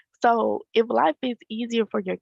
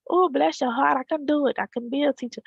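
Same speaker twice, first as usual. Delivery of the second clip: mock sugary sympathy; 5 semitones higher than usual. People mocking praise of teachers.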